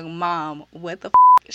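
loud mock outrage on the last words; imitated shocked protest. The roommate protesting to her mom, mock loud shock. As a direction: play the stunned daughter protesting to her mom. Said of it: "She's looking like".

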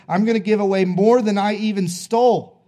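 excited declaration. Acted. Zacchaeus's bold declaration retold.

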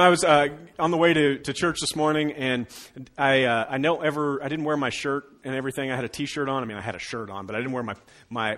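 ordinary delivery

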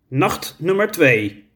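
slow croaking duck voice. Acted. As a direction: croak it slowly like a grumpy duck. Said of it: "kwaakte Wubbel". (langzaam kwakend als een eend)

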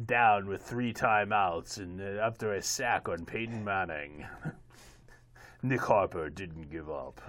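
lightly voiced slow sports-film narrator; slow, measured impression of a football-film narrator; John Facenda. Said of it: "in my best John Facenda voice".

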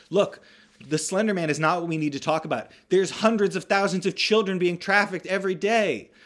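mock-earnest lecture about trafficking; a hint of a conspiracy preacher; preachy conspiracy convert. Ren voiced as QAnon convert.

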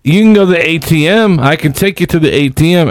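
lightly voiced eager vendor. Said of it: "She's like".

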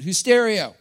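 "Who's stereo" said firmly as English stereo; emphatic anglicised "Who's stereo"; like you mean it. Shown as a demonstration. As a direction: lead the room in "hoos-STAIR-ee-oh". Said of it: "louder like you mean it".

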